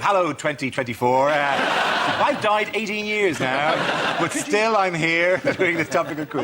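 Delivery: slow, drawn-out mock message from beyond; message to future viewers. Host to Dave's repeat viewers years from now, slow mock message. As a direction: address viewers of the future, slowly. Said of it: "a message to the viewers of Dave".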